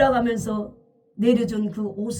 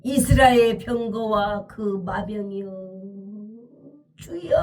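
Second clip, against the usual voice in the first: acted crying out; 4 semitones lower than usual. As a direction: call out solemnly, stretching the last word. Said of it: "그리고 막 소리를 질러요". (끝을 길게 끌며 외치듯)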